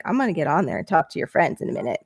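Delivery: hushed, hurried hint of a stern dad; imitated scolding dad. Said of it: "dadded me".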